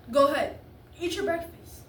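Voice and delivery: firm parental order. Acted. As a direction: tell the child to get on with it. Father ordering child to eat.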